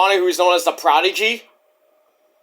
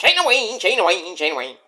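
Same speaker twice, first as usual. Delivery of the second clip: rapid repetition. Shown as a demonstration. Showing how the name sounds said really fast, rapid repetition. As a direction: run it together fast, dropping away each time. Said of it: "You say it really fast".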